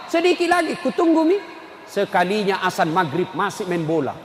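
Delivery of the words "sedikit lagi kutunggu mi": high lightly voiced boy stalling; a hint of a kid pleading; boy's reply. Nephew stalling his uncle, high. Boy answering while playing.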